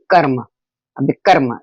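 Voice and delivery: कर्म with र sounded just before म; half र before म. Shown as a demonstration. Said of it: "म के पहले आप र बोल रहे हैं". (कर्म में म से पहले आधा र)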